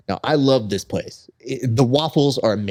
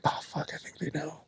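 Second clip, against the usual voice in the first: hushed panic; 5 semitones higher, 15 dB quieter than usual. Retold or imitated. Panicked inner thought.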